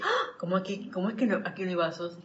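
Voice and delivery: mock dismay. Finding no glasses in the cupboard, mock dismay. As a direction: act out the shock of an empty cupboard.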